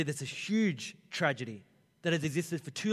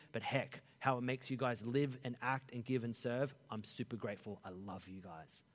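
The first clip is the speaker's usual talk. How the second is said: softer, lower heartfelt thanks; grateful city; 3 semitones lower, 3 dB quieter than usual. Retold or imitated. The city thanking the church, soft and fading to tender. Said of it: "our city goes".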